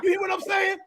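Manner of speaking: lightly voiced fiery soul singer ranting; impression of a soul singer. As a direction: play a cranky old star who won't be told what to do, only lightly put on. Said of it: "James impersonation".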